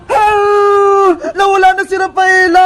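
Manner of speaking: mock wailing. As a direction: cry out in exaggerated dismay over a friend leaving. Acted wail as Rafaela disappears.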